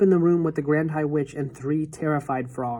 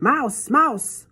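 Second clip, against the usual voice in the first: alarmed shout; 9 semitones higher, 3 dB louder than usual. A narrator's reading.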